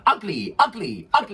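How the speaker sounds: high sing-out teacher call; imitated dance teacher. Dance teacher prodding unsmiling dancers, imitated high call. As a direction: call it out high, over the dancing. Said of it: "she'd go, you'd be dancing".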